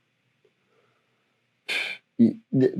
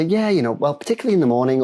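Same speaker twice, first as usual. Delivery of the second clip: patient answering; 6 semitones higher, faster than usual. Retold or imitated. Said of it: "they'll say".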